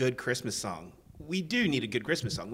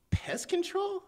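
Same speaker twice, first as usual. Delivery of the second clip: whisper; slower than usual. Acted. Hushed aside about pest control.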